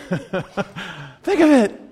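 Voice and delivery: exclaimed pulpit appeal; emphatic urging. Real, not acted. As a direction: urge the crowd out loud. Preacher urges crowd, then repeats hushed.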